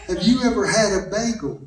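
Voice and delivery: "Have you ever had a bagel" in separate, careful words; enunciating wife. Retold or imitated. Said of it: "She enunciates".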